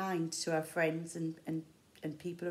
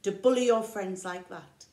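forest animals scolding the bear; 6 dB louder than usual. Acted.

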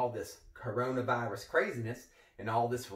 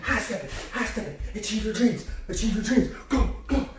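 high, much louder strained yelling; straining shout; 9 semitones higher, 8 dB louder than usual. Acted. Coach yelling himself on mid-stunt, loud and high. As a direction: push through the move yelling. Shouting during parkour attempt.

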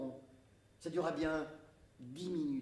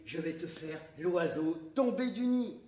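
mock boast; 3 semitones higher, 6 dB louder than usual. The speaker announces his stunt.

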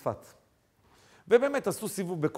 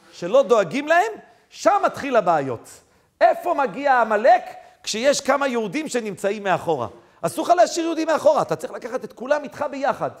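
raised, urgent exhortation; forceful preaching; 6 semitones higher, 8 dB louder than usual. Acted. Preacher warns against leaving Jews behind, forceful preaching. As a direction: press the point home, loud and high.

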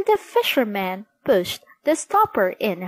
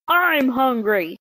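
a hint of a raised genie shout; 4 semitones higher than usual. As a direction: shout it a bit higher. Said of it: "shouted the genie".

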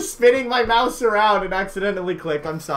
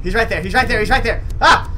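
alarmed; 4 semitones higher than usual. Real, not acted. Spots the killer, alarmed.

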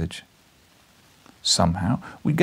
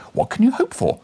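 much higher, loud exasperated plea; high pleading young man; 14 semitones higher, 4 dB louder than usual. Acted. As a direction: cry out in disbelief. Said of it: "I cried".

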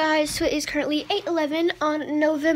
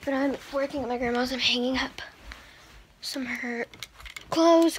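hiccupping mid-sentence; hiccups. Real, not acted. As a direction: talk through the hiccups. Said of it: "I have the hiccups".

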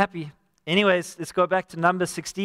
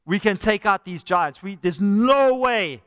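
slow, loud and dismayed; fearful spies; 4 dB louder, slower than usual. Retold or imitated. Spies reporting giants to Israel, slow loud dread. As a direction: drag out the hopeless no. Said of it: "ten of those spies came back and said".

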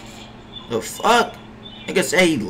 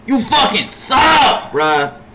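higher and slow, venting; angry yell; 4 semitones higher, slower than usual. Real, not acted. Streamer venting at his bad center, angry yell. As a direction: drag it out in disgust.

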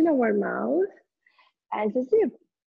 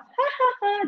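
adult laugh demo; 9 semitones higher than usual. Shown as a demonstration. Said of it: "one of us laugh".

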